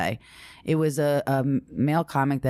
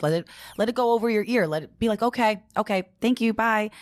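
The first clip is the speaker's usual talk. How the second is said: high, singsong brush-off; breezy mock dismissal; 8 semitones higher than usual. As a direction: imitate waving someone off politely, pitched up. Retold advice on brushing critics off.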